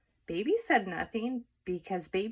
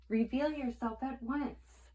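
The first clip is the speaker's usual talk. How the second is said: stern command; 6 semitones higher than usual. A narrator's reading. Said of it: "shouted Eugenia".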